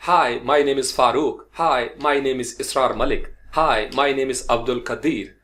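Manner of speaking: hi, my name is said slowly and carefully; slow demo sentences. Shown as a demonstration. Teacher modelling an introduction slowly for students. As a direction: spell each word out slowly for learners.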